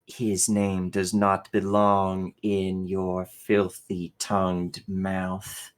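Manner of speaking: cold machine voice seething with hatred; robotic, cold and hateful; mechanical voice. Acted. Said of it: "coming through this mechanical voice is just seething hatred".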